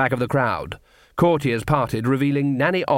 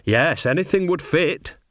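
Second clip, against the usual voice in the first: cheerful heckler, pitched up; higher, good-humoured character voice; 5 semitones higher than usual. Acted. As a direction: chirp up from the crowd. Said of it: "said a cheerful voice".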